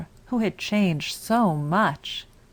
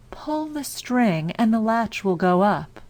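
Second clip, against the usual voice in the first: softened wolf voice; 4 semitones higher than usual. Acted. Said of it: "softened his voice as much as he could".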